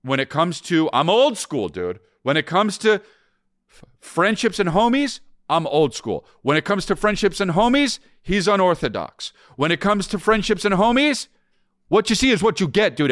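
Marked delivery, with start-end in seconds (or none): 2.2-13.1 high-pitched, slow bragging; boastful. Acted. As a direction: brag like a proud bro. Proud self-praise, very high pitch.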